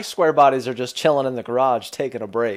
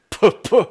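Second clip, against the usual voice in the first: imitated engine puffs; 7 semitones higher, 3 dB louder than usual. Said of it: "It's just like".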